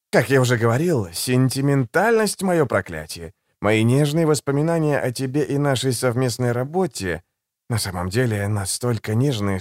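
calm, silky and a little mocking; suave assassin voice. Голос Жемчуга. (учтивый, вкрадчивый голос убийцы)

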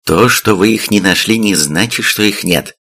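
slap the doctor's doubt down briskly; sharp cut-off. Acted. Officer silences the doctor, a mild sharp retort. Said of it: "резко оборвал военный".

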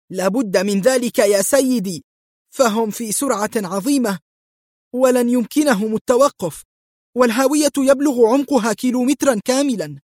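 nervous driver explains the deadly drop; growing tension. Acted. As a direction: tension building line by line. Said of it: "وقد ازداد توتره".

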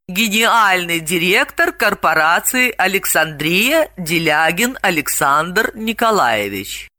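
slow, measured card reading; reading aloud. A narrator's reading. Delila reads the business card, slow and measured. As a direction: read it out deliberately. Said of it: "Далила прочла вслух".

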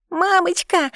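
put-on high little girl's cry; a small girl crying out for mummy; child calling mum. A narrator's reading. Child calls her mother.

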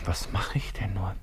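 whisper. Acted. Wiederholt sich flüsternd. (die Frage leise flüsternd wiederholen)

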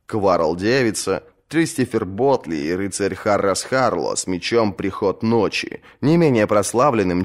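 usual speaking voice

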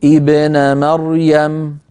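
مريم said slowly, held at the end; slow recitation demo; slow test start. Shown as a demonstration. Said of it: "نبدأ بدءا اختباريا نقول ابن".

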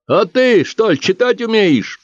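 a heckler doubting the thief; mocking shout. Someone in the crowd shouts at the thief, jeering and loud. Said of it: "выкрикнул кто-то из толпы".

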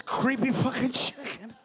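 slow, odd put-on voice with a laugh; applicant's blunt order. Job applicant greeting Mayra, odd slow voice. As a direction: drawl it like a clueless customer. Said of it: "the best applicant says".

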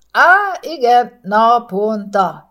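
aha, drawing it out as the answer clicks; relieved exclamation. A narrator's reading. Heinz solving his crossword, relieved outburst. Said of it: "kiáltott fel megkönnyebbülve".

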